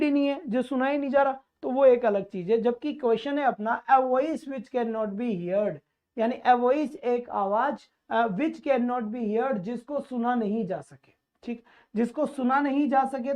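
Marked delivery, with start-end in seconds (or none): 3.9-5.7 very slow, word by word reading; deliberate teacher dictation pace. Shown as a demonstration. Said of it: "re-reads question". 8.3-9.6 very slow, word by word reading; deliberate teacher dictation pace. Shown as a demonstration. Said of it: "re-reads question".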